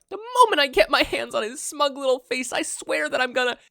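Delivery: high, loud seething threat; angry boy building to a climax; furious rant. Acted. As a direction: spit the threat out. Rant climbing.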